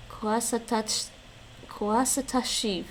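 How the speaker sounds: slow careful "kuasatashiv"; Gaelic word. Shown as a demonstration. Learner reads plural Gaelic form from lesson, slowly. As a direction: sound out "kuasatashiv" slowly, syllable by syllable. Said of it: "more than one person".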